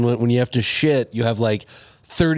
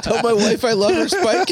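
high, hammy dying plea; mock deathbed goodbye, pitched up; wounded soldier gasping; 8 semitones higher than usual.

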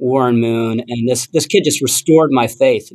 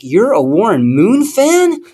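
higher, drawn-out incredulous question; excited kid quote; 8 semitones higher, slower than usual. Retold or imitated. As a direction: imitate an excited kid's amazed question. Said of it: "all excited".

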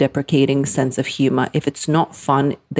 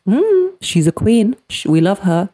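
slow, drawn-out gush, high and louder on queen; admiring mock gush; 5 semitones higher, 3 dB louder than usual. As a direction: play the impressed crowd. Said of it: "they're gonna be like".

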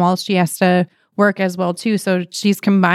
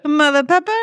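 higher-pitched catchphrase finish; Bruce Willis; 7 semitones higher, faster than usual. Acted. Host trying the sauce name as instructed, action-hero catchphrase. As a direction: toss it out like an action-hero one-liner. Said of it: "say it like Bruce Willis".

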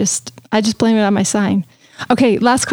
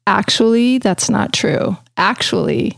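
a hint of the know-it-all husband; serious know-it-all husband; 2 semitones lower, slower than usual. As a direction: drone like the guy who always says actually. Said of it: "He's always like".

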